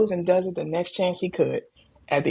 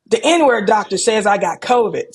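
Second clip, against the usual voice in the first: mock loud; 2 semitones higher, 5 dB louder than usual. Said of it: "He said it so loud".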